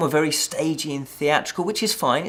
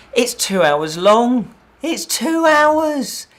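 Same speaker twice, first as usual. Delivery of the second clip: slow, loud, much higher cry of disbelief; exasperated disbelief; 8 semitones higher, 7 dB louder, much slower than usual. Real, not acted. Reviewer venting to viewers, slow loud exasperated cry. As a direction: groan about how long the film drags. Complaining the film is too long.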